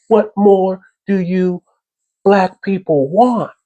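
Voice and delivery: mocking condescending voice; mock official voice. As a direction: parody a smug politician brushing him off. Mocking the government's excuses.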